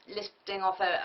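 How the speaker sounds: ordinary talk, nothing marked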